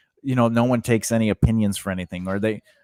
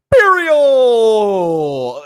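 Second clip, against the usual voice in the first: loud high call of the dog's name; retold shout; 10 semitones higher, 6 dB louder than usual. Partner calling the dog from across the house, loud. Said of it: "J D goes".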